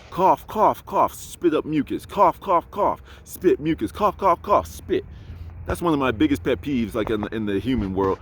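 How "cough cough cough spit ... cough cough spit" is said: mock coughing. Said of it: "hacking up a lung".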